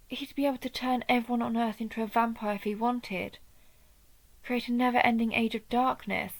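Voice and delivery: realising the danger as they speak; rising alarm. Acted. Warning the child of Rickard about the ritual, with rising alarm.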